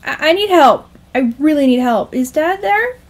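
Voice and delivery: stammering, high plea for help; beg, rising to an anxious question; desperate plea. Acted. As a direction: panicky son. Son begging mother for help.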